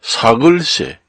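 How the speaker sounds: 사글세 as one word, "sa-geul-se"; 사글세 with 글 in place of 월; standard spelling reading. Shown as a demonstration. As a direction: say 사글세 joined up, a little slowly. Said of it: "이렇게 읽어요".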